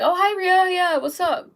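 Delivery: casual friendly phone chat; breezy hello settling into an easy request; loving, calm tone. Acted. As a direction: switch to sweetly chatting with your sister. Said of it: "in a perfectly loving, calm tone".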